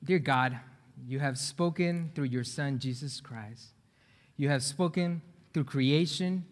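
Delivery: measured, low opening prayer. Real, not acted. Preacher leading the congregation in prayer, quiet and reverent. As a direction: pray quietly and reverently, winding down soft.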